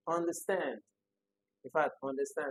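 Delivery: "understand" as un-der-STAND; third-syllable stress. Shown as a demonstration. Teacher checks the options, "understand" stressed on the third syllable. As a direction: lean on the last syllable of "understand". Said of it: "the stress is on the third".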